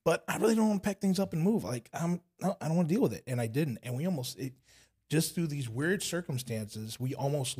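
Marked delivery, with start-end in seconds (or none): 0.0-3.2 flat refusal. Retold or imitated. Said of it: "I flat, I was like".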